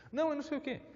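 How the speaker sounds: angry yell. Retold or imitated. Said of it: "angry person still yelling".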